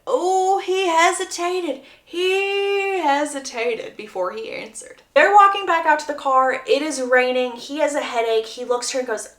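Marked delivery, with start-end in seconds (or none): 0.1-4.0 "he hesitated" high and stretched out, said over; pointed emphasis. Real, not acted. Narrator flagging his pause before answering, "he hesitated" drawn out pointedly. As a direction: hold a long, high "He" on "He hesitated".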